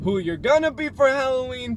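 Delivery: loud, high, playful shout; hyped-up holler. Pretend. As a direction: holler it high like a hype man.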